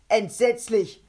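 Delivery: loud, high bellow; roar. A narrator's reading. The mouth judges Kovac's attempt, roaring. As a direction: roar it out appalled. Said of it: "brüllte der Mund".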